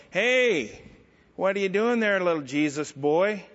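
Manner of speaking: Lane Flynn. Retold or imitated. Construction worker teasing the young believer, mocking heckler voice. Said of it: "this is the way he talked. This is his voice".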